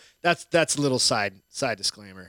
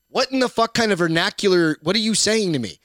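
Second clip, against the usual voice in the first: baffled outrage; 4 semitones higher than usual. Retold or imitated. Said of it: "And I'm like".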